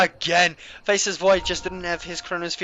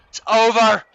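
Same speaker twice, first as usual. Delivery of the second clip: excited shout; 3 semitones higher, 6 dB louder than usual. Real, not acted. Caster shouts climax.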